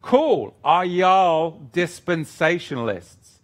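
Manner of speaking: put-on slow, drawling American accent, opening high. Reading a church's question to the audience, in a put-on American accent. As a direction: read it like a folksy American. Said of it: "let me do my American accent".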